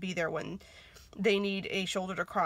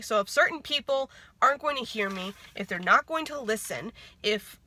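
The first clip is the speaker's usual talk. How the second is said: louder, fed-up and firm; defiant declaration; 4 dB louder than usual. Retold or imitated. Telling people who won't listen she's done, loud and defiant. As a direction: put your foot down hard. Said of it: "where I said".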